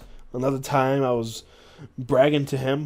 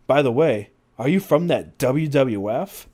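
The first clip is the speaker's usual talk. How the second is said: lightly voiced British manager, louder; British accent; 2 semitones higher, 5 dB louder than usual. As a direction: ask with a touch of British accent. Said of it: "with a British accent".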